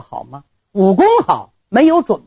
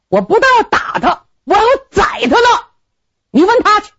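furious snap; 12 semitones higher than usual. Acted. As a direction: spit out that he wants her dead. Groom snaps in fury.

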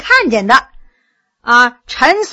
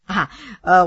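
throat-clearing; 6 semitones lower than usual. A narrator's reading. Storyteller about to resume his joke, low throat-clearing hesitation. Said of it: "纪云清了清嗓子".

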